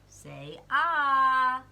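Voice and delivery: loud bossy doctor; doctor's order. Acted. Doctor examining his mouth.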